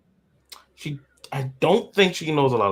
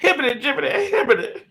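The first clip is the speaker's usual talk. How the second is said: riled-up rant, high and loud; hammed-up ranting impression; Eric the Lion; 9 semitones higher, 4 dB louder than usual. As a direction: yell it like a worked-up hothead. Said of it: "had to get really riled up to do Eric".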